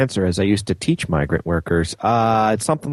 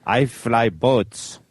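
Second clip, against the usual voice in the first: put-on pirate accent; much slower than usual. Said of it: "In your best pirate accent".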